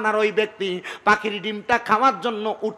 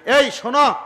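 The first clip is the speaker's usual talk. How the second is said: summoning call; 4 semitones higher than usual. Acted. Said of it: "উনি ওই ব্যক্তিকে ডাক দিলেন".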